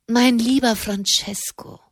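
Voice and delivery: lifted, teasing "Mein lieber Francesco"; teasing address. Acted. Giulia teasing Malavolti about his fear, mockingly sweet. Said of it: "Werdet nur nicht sarkastisch".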